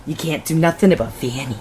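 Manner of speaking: lightly put-on hillbilly auntie accent; mild mock hillbilly-Scottish accent. Shown as a demonstration. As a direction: say it as a brogue-tinged Southern auntie. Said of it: "it's the auntie voice".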